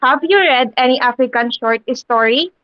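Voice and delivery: "Have you read any African short story?" rising at the end; teacher's example question, "short story" ending on a rise; rising intonation. Shown as a demonstration. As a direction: lift the voice on "story" as a yes-no question. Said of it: "there is a rising intonation".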